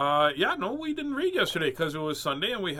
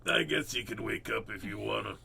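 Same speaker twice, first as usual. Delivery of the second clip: nonchalant cat; 5 semitones lower than usual. Acted. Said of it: "then Cosmo gets up".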